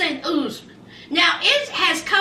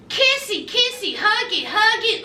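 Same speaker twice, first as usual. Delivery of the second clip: mock baby talk; 3 semitones higher than usual. Mocking their making up.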